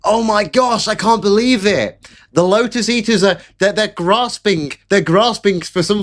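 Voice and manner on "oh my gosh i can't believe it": high, mocking gasp of disbelief; mock shocked crowd. Streamer parodying shocked rivals, high mocking voice. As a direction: parody people who can't believe it. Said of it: "Everybody else is".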